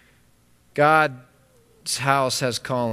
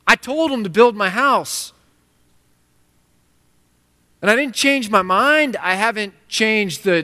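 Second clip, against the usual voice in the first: God's indignant voice; 4 semitones higher than usual. Acted. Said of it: "He's like".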